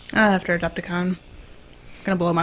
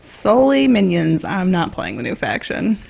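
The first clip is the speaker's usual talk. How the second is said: put-on voice; slower than usual. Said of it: "That voice".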